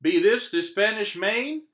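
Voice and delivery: loud, high pirate captain hail; yelling pirate captain. Acted. Head pirate yelling to the boy on the beach, loud and high. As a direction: hail the shore like a swaggering pirate. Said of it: "the head pirate climbed out of the boat and yelled".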